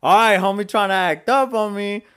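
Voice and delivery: loud, riled-up challenge, re-enacted; heated retelling. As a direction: square up to him, replaying the argument. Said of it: "I got heated".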